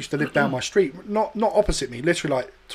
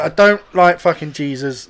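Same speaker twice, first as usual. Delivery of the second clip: loud, slow, emphatic denial; exasperated, each word leaned on; irritated retort; 7 dB louder than usual. Retold or imitated. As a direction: protest hotly at a teasing sister. Annoyed retort to teasing sister.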